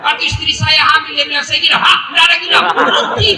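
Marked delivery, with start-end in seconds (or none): 1.4-1.8 mock-tearful wife begging; hammed-up pleading wife; whiny wife. Wife voiced announcing craving. 1.8-3.3 loud, high refusal; mock-outraged husband; indignant retort.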